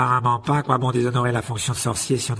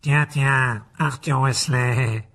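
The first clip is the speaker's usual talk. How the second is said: loud, higher, drawn-out mock welcome; scornful greeting; 3 semitones higher, 6 dB louder, much slower than usual. A narrator's reading. Mr Malfoy greets his rival Arthur, scornful. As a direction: stretch the name out with lofty contempt. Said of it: "le même sourire méprisant".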